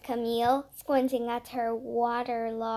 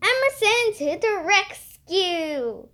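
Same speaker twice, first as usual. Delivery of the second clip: higher, louder cheerful shout; 8 semitones higher, 10 dB louder than usual. A narrator's reading. Emerson rescuing her hungry friends, loud eager shout. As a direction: announce yourself as the hero. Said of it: "shouted Emerson".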